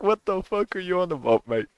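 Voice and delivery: British "what are you on about"; imitating a British bloke; British accent. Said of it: "Oi, lad".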